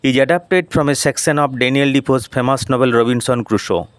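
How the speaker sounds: slow, careful read-aloud of English; deliberate classroom reading pace; slow textbook reading. Shown as a demonstration. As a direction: read each word out slowly for the class. Teacher reads English text aloud.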